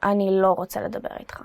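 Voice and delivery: quiet brush-off, refusing to talk; dismissive mutter. Shown as a demonstration. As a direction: mutter it, shutting them out. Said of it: "then you're just like".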